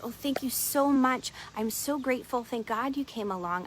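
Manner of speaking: lightly acted gushing thanks; grateful relief. Rescued woman thanks the monk.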